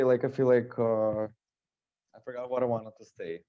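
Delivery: muffled behind a face mask; talking through a mask. Real, not acted. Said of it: "Sorry, it's the face mask".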